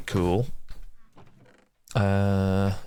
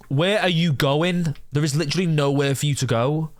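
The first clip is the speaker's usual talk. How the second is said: exasperated yell; 7 semitones higher than usual. Real, not acted. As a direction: call out in disbelief. Yelling at villager.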